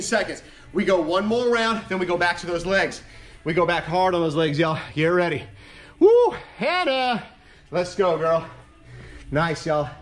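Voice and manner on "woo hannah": high, loud, slow cheer; cheering woo. Real, not acted. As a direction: whoop to cheer her on. Cheering on a participant.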